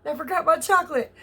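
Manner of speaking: "Damn" cried out high and loud; dismayed realization. Retold or imitated. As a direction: blurt it out as you remember. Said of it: "I was like".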